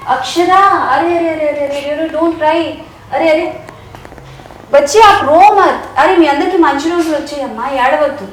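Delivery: high, loud soothing calls; loud pleading to stop crying; urgent comforting. Real, not acted. Host comforts crying child.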